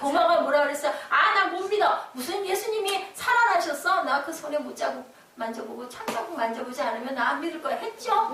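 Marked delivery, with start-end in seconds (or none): 1.1-7.8 lightly dramatized protest; defiant doubter. Acted. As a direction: play a doubter digging in, settling toward normal volume. Acting out doubting Thomas refusing belief.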